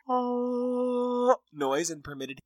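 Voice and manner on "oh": a higher, held wail at normal level; a light sustained wail sound; soft banshee wail. Retold or imitated. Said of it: "emit kind of like an".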